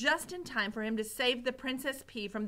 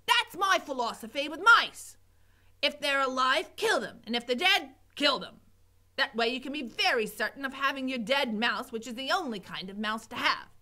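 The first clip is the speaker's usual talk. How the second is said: lightly voiced bossy cook; 3 semitones higher, 5 dB louder than usual. Cook lectures Mig.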